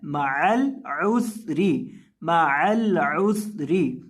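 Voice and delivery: slow मअल उसरी with a whistling s; whistled seen. Shown as a demonstration. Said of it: "सीटी की आवाज़".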